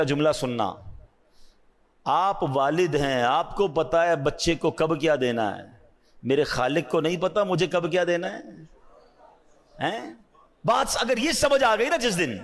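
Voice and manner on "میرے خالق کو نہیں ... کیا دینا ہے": normal talking voice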